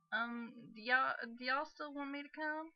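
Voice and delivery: put-on Southern accent. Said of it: "I just went really southern on her".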